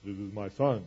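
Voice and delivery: mildly booming, solemn declaration; booming voice from heaven. Acted. God announcing his Son as usually read, mildly booming. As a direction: intone it like a formal verse. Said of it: "Hear this booming voice from heaven".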